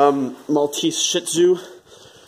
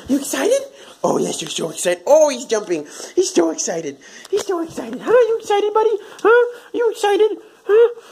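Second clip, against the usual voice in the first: much higher cooing voice for the dog; pet talk; 14 semitones higher than usual. Real, not acted. Owner cooing at her jumping dog, high baby talk. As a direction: coo up and down like asking a puppy.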